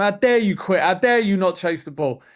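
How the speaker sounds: half-acted furious dad at training; mock scolding. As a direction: scold him like an angry coach dad. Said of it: "I'll start going to him".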